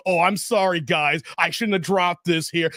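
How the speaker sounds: sheepish backing-down voice; mock apology. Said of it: "gonna conscious saying".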